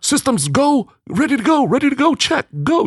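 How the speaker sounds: high, brisk NASA countdown voice; mission control voice. Retold or imitated. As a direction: call it like a launch controller. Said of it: "You know how they do that in nasa".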